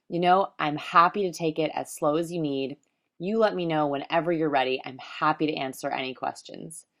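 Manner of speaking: gently matching a slow talker's pace; slowed-down cadence. Retold or imitated. Pitching to a hesitant Southern client, slowed-down cadence. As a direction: ease the words out to mirror him. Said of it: "I definitely wanted to slow down the words I was using".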